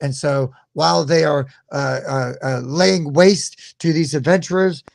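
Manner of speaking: lightly hammed-up English accent; Monty Python-style English accent, loosely held; vaguely English accent. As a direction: explain the plan in a makeshift English accent. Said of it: "vaguely English".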